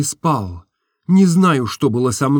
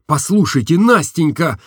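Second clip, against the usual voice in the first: louder call to Nastenka; cry out; 6 semitones higher, 4 dB louder than usual. A narrator's reading. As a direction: call out to her urgently. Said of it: "закричал я". (громко окликнуть Настеньку)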